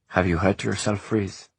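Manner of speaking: sugary concern with a barb underneath; sweetly. Acted. Ishrak teasing the sore servant, mock-sweet. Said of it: "she asked sweetly".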